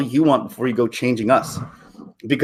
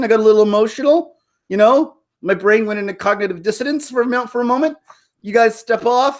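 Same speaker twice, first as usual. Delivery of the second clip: higher mocking girl voice; mock woman's voice; 6 semitones higher than usual. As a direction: parody her brushing off the bros. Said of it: "does she say to those guys".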